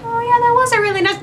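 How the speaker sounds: high, fast gushing; mock gushing as if falling for the ex's charm; mock swooning. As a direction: gush a little too eagerly, hammed-up. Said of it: "we're like".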